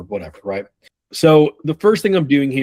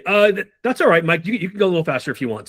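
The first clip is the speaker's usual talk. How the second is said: polite listener; 5 semitones higher than usual. Retold or imitated. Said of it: "you guys would say".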